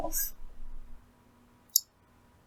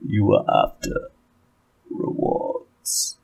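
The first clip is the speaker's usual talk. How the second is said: delighted Ulfric; slower than usual. Acted. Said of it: "eyes alight with delight".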